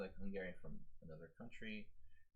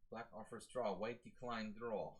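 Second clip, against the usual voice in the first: slow, hammed-up Russian accent; fake Russian accent; slower than usual. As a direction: read the moves like a Russian commentator. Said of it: "doing the fake Russian accent".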